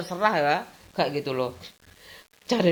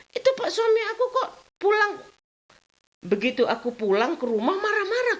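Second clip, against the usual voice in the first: laughing complaint; 12 semitones higher than usual. Retold or imitated. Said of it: "aku tanya Bu Mulyana".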